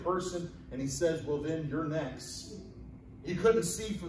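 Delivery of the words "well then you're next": lower, softer, slow punchline; understated challenge. Retold or imitated. Tightrope walker to excited volunteer, quietly calling his bluff. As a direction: drop it low and slow.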